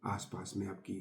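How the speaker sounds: soft, settled meditation voice; guided meditation. Acted. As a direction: ease listeners gently into the practice, with pauses. Continues leading the guided meditation. (शांत, धीमे स्वर में ध्यान का निर्देश)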